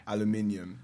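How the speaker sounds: "Aluminium" ending lightly in -yum; British aluminium. Shown as a demonstration. Correcting the hosts on the E, British aluminium. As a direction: say "Aluminium" without a long E before -um. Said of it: "You don't say the E like that".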